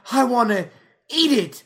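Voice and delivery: Louis teasing his friends; Louis fake-out. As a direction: tease the catchphrase. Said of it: "He'll be like".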